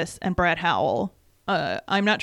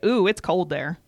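mock reaction. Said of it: "Do you always get".

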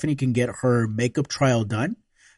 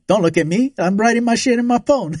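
laughing quote; 8 semitones higher than usual. Retold or imitated. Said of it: "we were both like".

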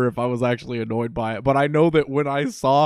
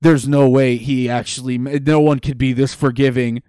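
Ignatz voice; 6 dB louder than usual. Retold or imitated. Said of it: "And then Ignorance is like".

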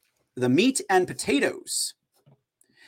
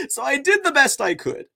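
higher-pitched, through laughter; laughing while talking; 9 semitones higher, 4 dB louder than usual. Real, not acted. Host admitting a poor accent attempt to listeners, laughing. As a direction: talk through your own laughter.

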